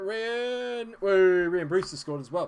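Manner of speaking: loud whooping goal cheer; excited cheer. Real, not acted. Gamer cheering his striker's goal, loud.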